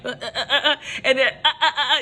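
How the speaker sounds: laughing mock grunts of passion; passionate grunting, imitated. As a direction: imitate yourself worked up, wordless "uh, uh, uh". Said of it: "when I get passionate about something".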